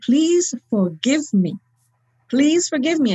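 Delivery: slow, drawn-out retold plea, without sobs; tearful plea. Macho man asking each one forgiveness, retold tearful plea. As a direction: imitate someone begging for forgiveness. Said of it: "And he starts crying".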